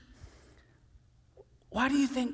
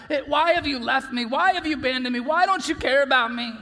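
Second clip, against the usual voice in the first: raised, pleading lament to God; anguished questioning; 2 semitones higher, 5 dB louder, faster than usual. Acted. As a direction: cry out the questions, building louder.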